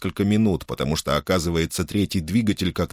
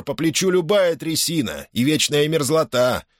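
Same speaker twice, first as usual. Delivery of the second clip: booming pharaoh; 6 semitones higher than usual. A narrator's reading. Финдли фантазирует.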